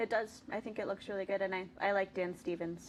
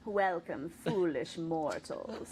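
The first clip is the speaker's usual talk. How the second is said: slow, deep, sinister greeting; spooky ghost host; 3 semitones lower, slower than usual. Retold or imitated. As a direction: intone it like a haunted house host. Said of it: "You know the words".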